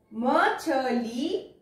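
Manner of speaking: drawn out slowly, syllable by syllable; very slow sounding out. Shown as a demonstration. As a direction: sound out मछली for the class. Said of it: "teacher sounds out word".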